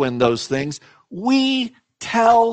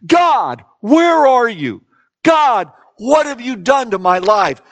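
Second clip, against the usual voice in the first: imitated anguished cry; 5 semitones higher, 4 dB louder than usual. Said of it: "I can just hear the voice echoing".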